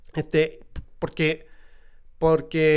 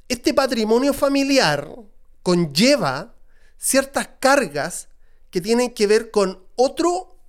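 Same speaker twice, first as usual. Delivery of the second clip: usual speaking voice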